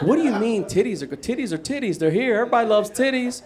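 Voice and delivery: high, fast protesting disbelief; mock disbelief. Sleeper refusing to believe the news, protesting. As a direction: argue it can't be true.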